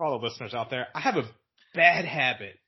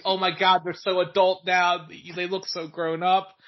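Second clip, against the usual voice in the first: slow, marveling grandma voice; gushing grandma; 5 semitones higher, 4 dB louder, slower than usual. Retold or imitated. Grandma gushes over the Harry Potter actors, slow and marveling. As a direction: draw it out in awe. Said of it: "she had told me".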